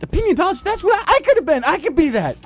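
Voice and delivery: bright excited squeal; excited, high. Pretend. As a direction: gush like you just found your calling. Excited high mock reaction.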